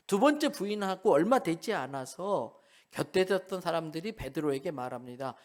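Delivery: ordinary delivery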